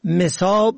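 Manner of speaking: مصاب with "e" after the م, "mesob"; first vowel kasra. Shown as a demonstration. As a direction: say مصاب as me-SOB. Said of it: "از رهگذر تلفظ و معنا".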